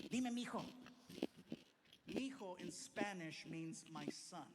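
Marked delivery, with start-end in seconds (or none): 0.1-0.6 mom's answer. Retold or imitated. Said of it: "Amá".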